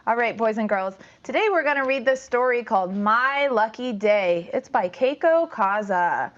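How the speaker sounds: bright storytime voice for a class; reading to children. Acted. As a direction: draw the kids into the story.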